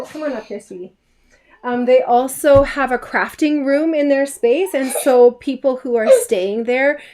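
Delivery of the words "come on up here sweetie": soft call. Real, not acted. Calls daughter over softly.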